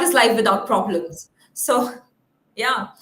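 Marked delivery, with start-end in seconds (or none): none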